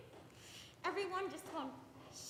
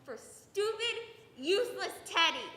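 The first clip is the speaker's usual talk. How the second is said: spat out louder, bitterly; bitter self-loathing; 4 semitones higher, 6 dB louder than usual. Acted. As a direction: sneer at yourself.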